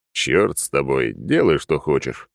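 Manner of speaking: slow, low grumble; grumbling. Acted. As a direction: grumble it out grudgingly. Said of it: "проворчал я".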